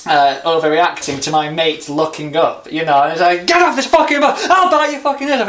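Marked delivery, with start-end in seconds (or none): 3.4-5.5 hammed-up shrieking madman, much higher and louder; imitating an unhinged man screaming on the bus; mock furious yell. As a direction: scream it like a raging drunk. Retold madman ranting again.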